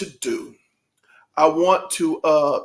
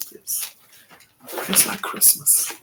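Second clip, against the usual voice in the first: choked up; 10 dB quieter than usual. Real, not acted. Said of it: "I feel like a kid".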